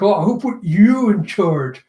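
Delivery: mildly huffy acted retort; mock-indignant objection; annoyed. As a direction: protest with a touch of irritation. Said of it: "Shichi's getting all annoyed".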